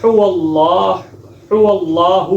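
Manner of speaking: هو اللہ with a light ha; wrong thin ha. Shown as a demonstration. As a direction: demonstrate هو اللہ with a thin breathy ha. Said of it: "میں آپ کو پڑھ کے بتاتا ہوں".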